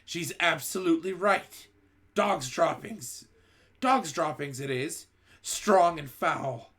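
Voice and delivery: high, slow, loud disgust; disgusted witch. A narrator's reading. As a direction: drag out the foul smell. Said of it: "cried another voice".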